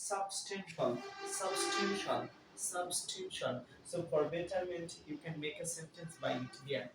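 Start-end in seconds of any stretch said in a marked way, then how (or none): 0.1-3.5 substantial repeated slowly with a clear "shal" ending; teacher modelling substantial, ending in shal; model pronunciation. Shown as a demonstration. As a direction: drill substantial as sub-stan-shal for the class. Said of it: "Second term is".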